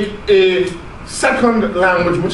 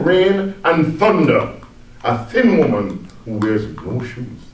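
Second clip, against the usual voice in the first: poem reading. Shown as a demonstration. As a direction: read the poem with gravity. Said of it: "this is how it goes".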